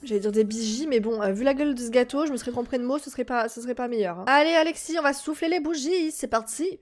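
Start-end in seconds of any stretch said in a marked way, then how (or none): 4.3-6.8 funny put-on voice. Real, not acted. Streamer to her Sim, a high playful announcer voice. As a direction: play it up like a cheery game host. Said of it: "Pourquoi je parle comme ça?".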